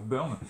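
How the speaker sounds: Byrne as one syllable, "Burn"; correct pronunciation. Shown as a demonstration. Reviewer gives viewers the correct name, Byrne said as "Beurn". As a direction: say Byrne with a French "eu" vowel, "Beurn". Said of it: "la prononciation correcte soit Byrne".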